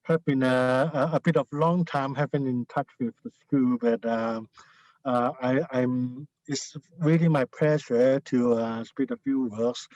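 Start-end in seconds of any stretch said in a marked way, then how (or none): 0.0-7.4 muffled behind a face mask; through a face mask. Real, not acted. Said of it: "It's nice to see you even though with a mask".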